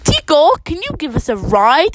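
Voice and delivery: lifted, eager storybook request; exclaiming. Acted. Dora asking Tico for a ride, exclaiming. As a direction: call up to a passing driver. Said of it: "exclaims Dora".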